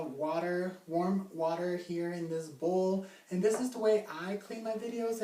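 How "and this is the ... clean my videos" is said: talking around gum; chewing gum. Real, not acted. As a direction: gum in mouth while speaking. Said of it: "I can't talk right now".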